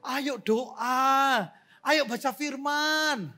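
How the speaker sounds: loud, high rallying calls, drawn out; urging shout. Acted. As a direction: round everyone up with insistent slow shouts. Acting out prodding people to church. (ayo, berseru keras mengajak jemaat)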